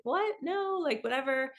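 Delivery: high, startled what then a dismissive no; shocked disbelief. Retold or imitated. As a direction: squeak out the outrage, then brush it off. Hearing the lower Jeep offer.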